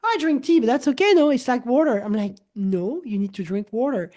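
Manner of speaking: usual speaking voice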